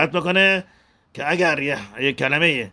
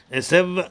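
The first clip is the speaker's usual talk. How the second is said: اسو finished distinctly before a short gap; اسو set apart from the next word; brief separating pause; 4 semitones higher, slower than usual. Shown as a demonstration. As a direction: close off اسو, then pause a moment. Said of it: "مکسی بکنه که این مکس خیلی کوتاه".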